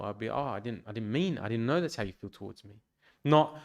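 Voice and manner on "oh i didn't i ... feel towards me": gentle. Retold or imitated. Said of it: "I'd be gentle".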